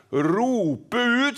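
mildly proclaimed call. Acted. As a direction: quote it as a mild cry to the crowd. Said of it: "sier han".

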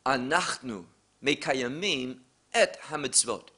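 careful Hebrew: "Anachnu mekayamim et hamitzvot"; Hebrew phrase. Shown as a demonstration. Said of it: "we say".

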